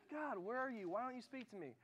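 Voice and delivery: high-pitched imitation of a plaintive cry; mock pleading. A believer complains to a silent God, mock pleading.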